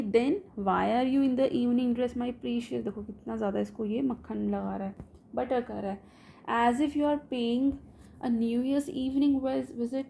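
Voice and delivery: slow, deliberate reading of a teasing host; unhurried recital of a mock-puzzled father; play reading. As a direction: read it out slowly, line by line. Reads Chubukov's lines in English.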